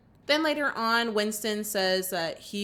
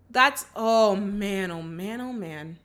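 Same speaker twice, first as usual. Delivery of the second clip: fading dismay; slower than usual. Real, not acted. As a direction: let the oh man die away. Dismay after firing.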